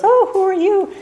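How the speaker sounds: high, startled mock cry; suddenly startled, high-pitched question. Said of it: "he's startled in the middle of the night".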